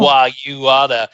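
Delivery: colleague's hammy cowboy impression, lightly voiced; John Wayne. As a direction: lightly imitate a Brit attempting an American movie-star voice. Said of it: "trying to act like John Wayne".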